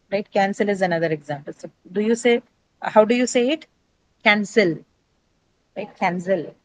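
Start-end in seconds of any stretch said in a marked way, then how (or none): 4.2-4.8 cancel stressed on its second syllable. Shown as a demonstration. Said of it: "stress is marked before the second syllable". 6.0-6.5 cancel with the weight on its last syllable; falling tune on cancel, stressing -cel; stress on second syllable. Shown as a demonstration. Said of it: "stress is marked before the second syllable".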